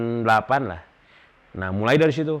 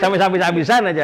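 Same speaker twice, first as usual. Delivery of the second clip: laughing; 7 semitones higher, 5 dB louder than usual. Real, not acted. Laughing about spending everything.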